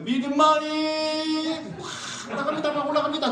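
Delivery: high, fast, loud rising praise; excited climb. Shown as a demonstration. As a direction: push it up with excitement. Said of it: "마지막으로 합니다".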